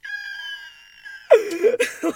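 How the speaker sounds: high, loud wordless wail; anxious squeal. Acted. Listener acting out anxiety at work, anxious squeal. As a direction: squeal as if overwhelmed by dread. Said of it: "I'm just like".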